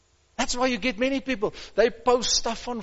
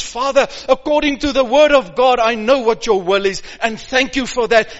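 confident prayer; 6 dB louder than usual. Shown as a demonstration. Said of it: "you pray in the name of Jesus".

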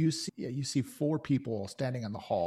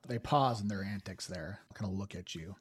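usual speaking voice

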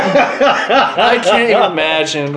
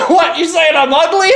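mock offended; 10 semitones higher than usual. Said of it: "I was like".

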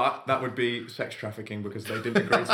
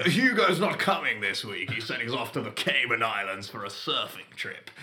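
posh toff. Retold or imitated. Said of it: "continuing the toff impression".

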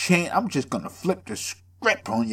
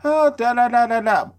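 higher, mocking excuse voice; mock excuse maker; 7 semitones higher, 4 dB louder than usual. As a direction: imitate someone making excuses. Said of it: "people that be like".

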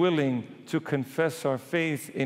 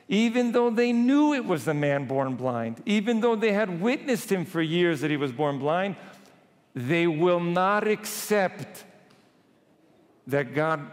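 higher-pitched, insistent sermon delivery; emphatic preaching; 4 semitones higher than usual. Real, not acted. Preacher decrying stubborn disbelief to congregation, emphatic. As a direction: drive the point home, drawing out the ending.

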